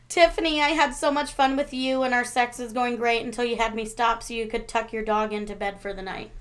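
even read-aloud, settling as it goes; reading a shout-out. Acted. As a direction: read the listener's message out in one steady run. Reads out shout-out message.

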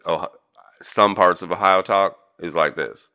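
lightly put-on southern Ohio twang; a hint of Kentucky-border Ohio accent; rural Ohio accent. Shown as a demonstration. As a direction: talk like southern Ohio country folk. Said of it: "this is how people from".

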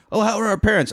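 high, sing-song fake concern; fake innocent concern. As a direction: play innocent, too sweet. Tuco feigning innocent concern.

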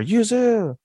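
high, drawn-out falsetto call; imitated calling out. Man calling to lost girl in snow, high imitated call. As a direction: call her name from afar, way up high. Calling over waking coma patient.

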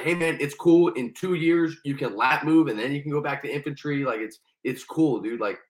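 smooth-talk like a recruiter selling; recruiter's cheerful sales pitch; salesman recruiter. Retold or imitated. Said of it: "he's like".

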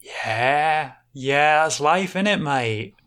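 a lightly voiced Aussie bartender, weary and firm. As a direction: cut the drunk off kindly but flatly.

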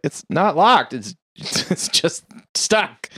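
slow, laughing mock reply; laughing while quoting. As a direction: lose it to laughter mid-quote. Retold reply, breaks into laughing.

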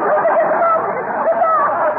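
high, slow, affected "never mind"; drawn-out airy dismissal. Acted. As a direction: float the words up high and slow, waving it away. Mrs Uppington repeats her question, drawn out.

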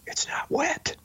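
high breathy squeak of disbelief; mock surprise. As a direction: toss it up into a thin amazed squeak. Surprise punchline of hand story.

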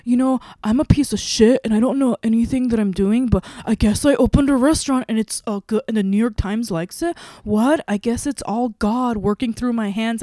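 imitating falsely modest self-abasement, pitched a little up; mock humblebrag. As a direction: play humble while slipping in the boast. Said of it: "like, unbearable".

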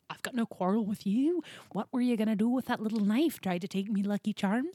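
hammed-up Irish villain, rising lilt; playful, badly faked Irish lilt; shaky Irish accent. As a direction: put on a rough Irish accent. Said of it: "my Irish accent needs some work".

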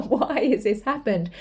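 mildly imitated frustration; lightly mock a baffled complainer; a touch of put-on exasperation; annoyed and frustrated. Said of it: "just annoyed and frustrated".

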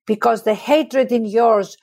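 impassioned plea to accusers, building in intensity; dramatic monologue recitation. Acted. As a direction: recite as Joan of Arc defying her judges. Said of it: "I start to recite this monologue".

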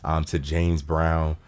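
low, soft, measured tribute; solemn condolences. Real, not acted. Continuing tribute to the late actor.

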